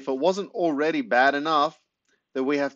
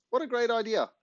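gleeful; 10 semitones higher than usual. A narrator's reading. Narrator pleased with scheme.

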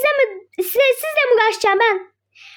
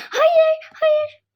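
fearful cry; 5 semitones higher than usual. Acted. Girl sees mother coming.

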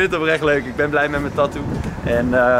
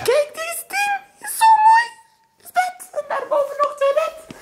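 excited. Real, not acted. Excited about the room.

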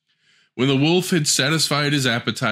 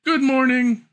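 high, louder greeting called across the room; calling out; 3 dB louder than usual. Acted. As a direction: call it out to the grandmother. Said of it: "She called out".

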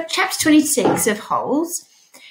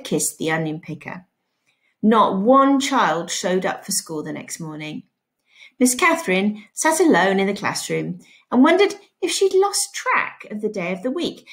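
steady classroom read-aloud narration; teacher reading a novel to pupils; story read aloud. A narrator's reading. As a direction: read the chapter to the class clearly. Teacher reads Holes aloud.

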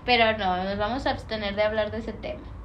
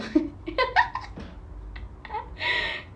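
breathy high-pitched giggle; high airy laugh; 5 dB quieter than usual. Real, not acted. Streamer cracking up at her own joke with a high laugh. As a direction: let out a squeaky laugh.

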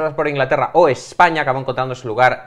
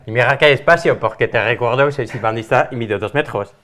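put-on French accent; 3 dB louder than usual. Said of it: "yo intentaré poner acento francés".

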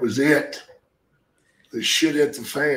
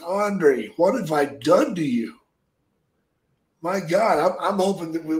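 retold angry confrontation; 3 semitones higher than usual. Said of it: "and I was so angry".

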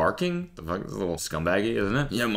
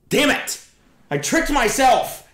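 mock outrage; 5 dB louder, slower than usual. Real, not acted. Catches himself out, mock outrage.

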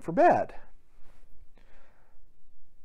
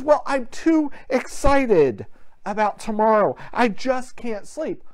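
put-on excited little boy; 5 semitones higher than usual. Little boy telling his father he can't sleep, mildly excited. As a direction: lightly act a kid too excited to sleep. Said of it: "understanding the little boy's excitement".

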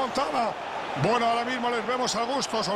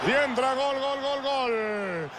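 goal call; 2 semitones higher, slower than usual. Acted. Goal call in match commentary.

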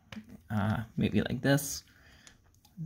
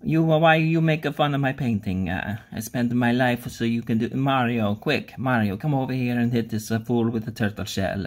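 mock Italian accent. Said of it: "Michelangelo is somewhere being like".

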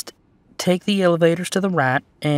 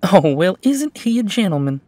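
higher, lilting mock-impressed coo; teasing admiration; 7 semitones higher, 6 dB louder than usual. Hotel clerk to a supposed couple, teasingly admiring. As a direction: gush a little over the gentleman.

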